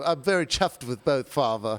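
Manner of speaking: mock posh English accent; British accent. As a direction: put on a jokey English accent. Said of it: "I'm very English right now".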